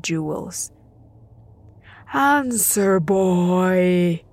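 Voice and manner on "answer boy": yelled. Acted. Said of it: "yelled Mictlantecuhtli".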